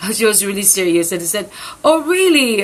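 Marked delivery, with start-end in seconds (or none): 1.8-2.6 higher, louder retold surprise; surprised reaction. Retelling own reply to sister's invitation, surprised. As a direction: react as if just caught out by news.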